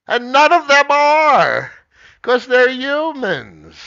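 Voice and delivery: loud rant. Real, not acted. Streamer ranting that politicians are just humans, loud exasperated. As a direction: blast it out, exasperated. Ranting about unreliable people.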